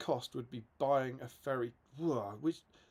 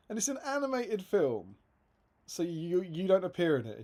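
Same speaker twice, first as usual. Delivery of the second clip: lightly mimicked puzzled interviewer, pitched higher; 4 semitones higher than usual. Interviewer pressing a star about his animated film, higher-pitched. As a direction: build the case as a baffled interviewer. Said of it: "And he go-, he goes".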